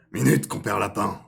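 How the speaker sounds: lightly voiced fox calling out loudly; first-try fox voice. Fox hailing Compère Lapin, loud rough-draft voice. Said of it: "Ah non, non, ah, c'est un renard".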